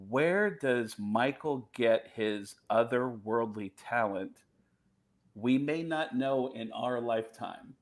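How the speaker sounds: slow, measured documentary narrator; video narrator. Retold or imitated. Reading out the tribute video's narration, lightly imitated slow narrator. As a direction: lightly imitate a solemn voiceover, slowly. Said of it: "the narrator said".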